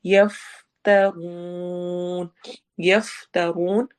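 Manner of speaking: slow chant with a long drawn-out oo; Quran recitation. Shown as a demonstration. Teacher demonstrating the long vowel, slow chant. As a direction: let the oo ring out long. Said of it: "वाव मद्दा".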